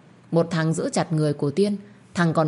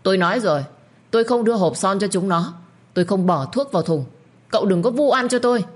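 strained, rising protest, louder and higher at the end; defiant arguing; 4 semitones higher, 3 dB louder than usual. Acted. Tiên defying cậu Chí over the poisoned water, stubborn argument. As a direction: push back hard, refusing the accusation. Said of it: "gân cổ để cãi cồn".

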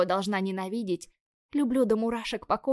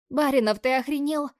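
higher, louder indignant outburst; outraged; 6 semitones higher, 6 dB louder than usual. A narrator's reading. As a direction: burst out at him, stunned and furious. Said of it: "Задыхаюсь я от эмоций".

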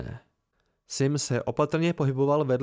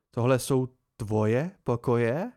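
feigned horror; 2 semitones lower, slower than usual. Acted. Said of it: "patřičně zděšený tón".

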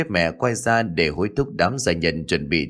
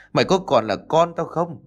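repeated question pitched higher, more insistent; mother's second, higher demand at her son; higher angry repeat; 7 semitones higher than usual. A narrator's reading. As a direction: push the same question up, rising anger.

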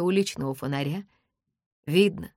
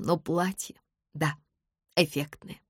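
ordinary delivery

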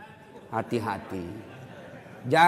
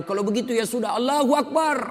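raised high voice building to a shouted takbir; imitated shout from the back; 12 semitones higher, 4 dB louder than usual. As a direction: mimic a youth calling out, climbing to a cry. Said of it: "Tiba-tiba berteriak anak muda".

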